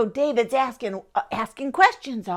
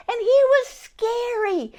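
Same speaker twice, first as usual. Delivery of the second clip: spooky emphasis; 11 semitones higher than usual. A narrator's reading. Storyteller stressing Goliath's menace.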